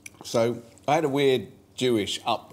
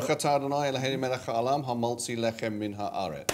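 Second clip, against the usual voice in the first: Hebrew blessing. Real, not acted. Says the blessing over bread.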